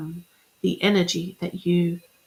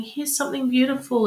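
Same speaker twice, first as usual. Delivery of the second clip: the universe speaking; 6 semitones higher than usual. Retold or imitated. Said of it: "The universe is going".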